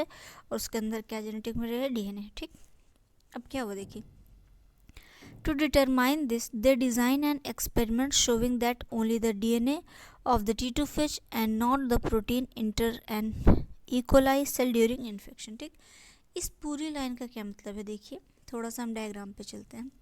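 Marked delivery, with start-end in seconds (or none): 5.4-15.6 reading the English line out slowly, word by word; slow textbook reading. Shown as a demonstration. Teacher reading the textbook aloud to students, slow dictation. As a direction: spell it out for the class like dictation.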